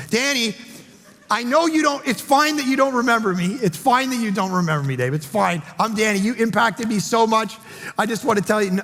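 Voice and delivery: high, insistent and excited; pleading warmly to be remembered, pitched high; emphatic eager reassurance. Retold or imitated. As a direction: keep reassuring him you don't mind, bursting with gratitude. Buddy insists stranger remembers him.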